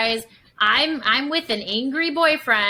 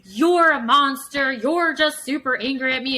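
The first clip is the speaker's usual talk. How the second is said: higher, louder accusation in a put-on voice; accusing girlfriend; 4 semitones higher, 4 dB louder than usual. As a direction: hurl the blame like a wounded girlfriend. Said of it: "girlfriend on the other side that's like".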